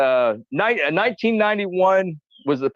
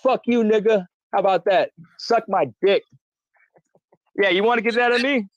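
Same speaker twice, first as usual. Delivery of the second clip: taunting a critic; 4 semitones higher than usual. Real, not acted. Taunting a named critic on camera.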